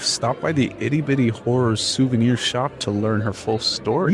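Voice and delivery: talking through a mouthful; mouth full. Real, not acted. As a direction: speak around a bite of food. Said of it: "stop talking with your mouth full".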